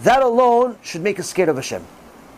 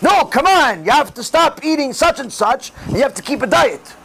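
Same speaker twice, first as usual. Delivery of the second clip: mock yell, pitched higher; scolding doctor; 5 semitones higher than usual. Doctor yelling at his patient about diet, mock scolding. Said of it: "if a doctor yells at the patient".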